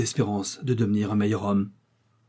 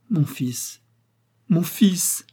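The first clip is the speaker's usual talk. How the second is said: cried out; 7 semitones higher, much slower than usual. Acted. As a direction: call out to him, overflowing. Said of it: "s'écria-t-elle".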